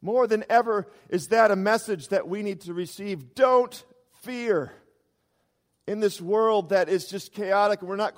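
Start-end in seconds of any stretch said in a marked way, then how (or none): 3.4-4.7 urgent exhortation. Real, not acted. Preacher urges congregation not to fear.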